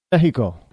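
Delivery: Mexico as "MEH-hee-ko"; Spanish pronunciation. Shown as a demonstration. Saying the country's name as locals do, Spanish-style Mexico. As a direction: breathe an H for the X in Mexico. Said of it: "They say Mexico".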